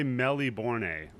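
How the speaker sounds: "Melbourne" as melly-bor-nay; joke mispronunciation. Shown as a demonstration. Trolling Australians about their city, Melbourne said melly-bor-nay. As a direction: stretch Melbourne into four syllables, ending "nay". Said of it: "That's how you actually say the name".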